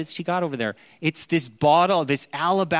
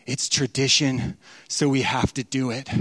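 dutiful obligation; 4 semitones lower than usual. Retold or imitated.

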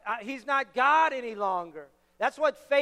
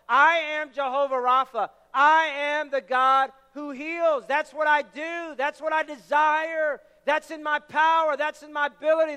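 loud, raised preacher's proclamation; God declaring himself; 3 semitones higher, 5 dB louder than usual. Acted. Preacher voicing God to the congregation, declaring with full force. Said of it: "let me declare who I am to you".

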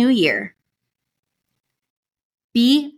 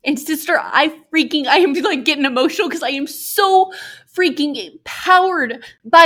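getting emotional; 3 semitones higher than usual. Real, not acted. Host moved by listener's potential, getting emotional. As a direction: voice lifted higher with welling emotion. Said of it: "getting emotional 'cause I am".

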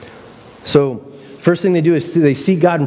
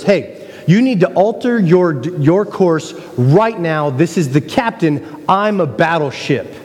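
furious captain; 3 semitones higher than usual. Retold or imitated. Captain on the radio, furious, demanding the course change. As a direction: bark the order, pulling rank. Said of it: "he's just furious".

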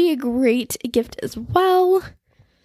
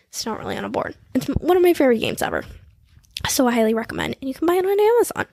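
all in one breath; much faster than usual. Real, not acted. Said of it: "That was a rapid fire through the gifts".

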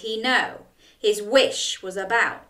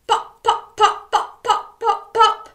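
high, giggly pops; playful popping; 12 semitones higher, 6 dB louder than usual. A narrator's reading. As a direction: bounce each pop like bubbles bursting. Popping sounds for children.

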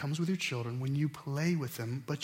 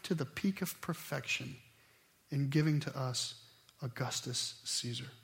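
solemn reading; 2 semitones lower, 4 dB quieter than usual. Shown as a demonstration. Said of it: "But this is what it said".

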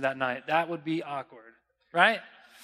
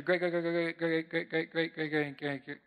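softer and softer repeated greats; trailing great-greats; 6 dB quieter than usual. Real, not acted. Preacher trailing off a long list of greats. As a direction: let the greats fade away. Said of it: "I couldn't even stop saying it".

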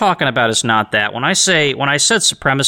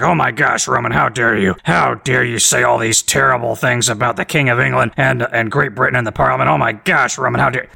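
lightly put-on grumpy critic voice; mock an agitated, scandalised listener. Host mimics a critic scolding him, mock agitated. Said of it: "grumpy, agitated podcast critic voice".

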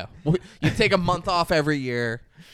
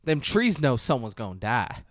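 put-on Southern accent. Podcaster quoting the narrator about trees, mock Southern accent. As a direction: imitate the film's Southern narrator. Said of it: "Serena says".

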